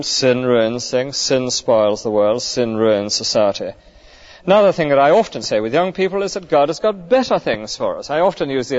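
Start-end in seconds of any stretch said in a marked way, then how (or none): 0.0-3.7 each "sin" clause spaced out slowly; slow emphatic list. Acted. Preacher slowly pounding home the harm of sin. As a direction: drop each phrase like a hammer blow, slowly.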